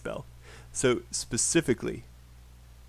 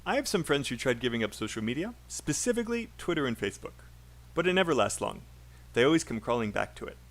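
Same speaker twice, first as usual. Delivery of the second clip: quick linked chunks split by short pauses; faster than usual. Shown as a demonstration. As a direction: model sentence for copying, phrase by phrase. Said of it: "Make sure you copy my pauses and my chunks".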